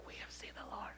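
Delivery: hushed whisper of the good news. Shown as a demonstration. Pastor asks the congregation to whisper it. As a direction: breathe it out like a secret. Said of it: "can you say this like".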